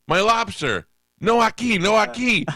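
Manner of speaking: high, loud comic exasperation; imitating a frustrated phone shout. Customer struggling to make driver understand, exasperated high shout.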